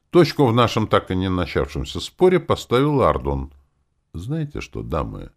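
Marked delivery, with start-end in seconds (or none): 4.1-5.3 lazy drawl. Acted. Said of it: "лениво протянул он".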